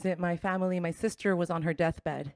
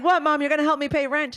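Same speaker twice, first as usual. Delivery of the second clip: excited; 8 semitones higher, 5 dB louder than usual. Retold or imitated. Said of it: "And I was like".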